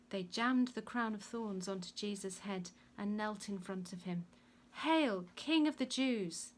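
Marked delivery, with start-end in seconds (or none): 4.8-6.5 loud, high, drawn-out mock salute; shouting. A narrator's reading. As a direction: shout a jeering hail. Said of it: "they shouted".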